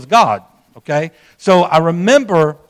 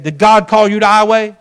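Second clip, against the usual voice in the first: imitating a gruff pastor's firm questioning; kinda gruff; 3 semitones higher, 4 dB louder than usual. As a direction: challenge him brusquely. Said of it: "It was kinda gruff".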